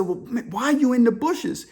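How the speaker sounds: puzzled, pitch jumping up; baffled question. Retold or imitated. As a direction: play the bewildered boss on the phone. Acted baffled boss questioning caller.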